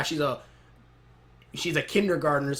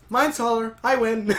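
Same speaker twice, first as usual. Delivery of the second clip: higher gloating boast, lightly acted; playful gloating; 7 semitones higher, 4 dB louder than usual. Pearl to Peridot beside their robots, playful gloating. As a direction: crow it in a lifted voice.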